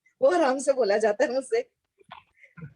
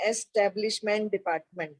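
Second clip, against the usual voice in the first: careful and paused; 4 semitones lower, 4 dB quieter than usual. Shown as a demonstration. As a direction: pause and spell out एस्टैब्लिशमेंट डिपार्टमेंट carefully. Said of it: "मुझे थोड़ा रुक के बोलना पड़ता है".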